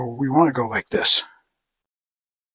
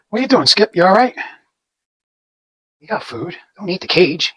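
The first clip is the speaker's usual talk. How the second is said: pet talk; 5 semitones higher than usual. Real, not acted. Talking to pet rabbit.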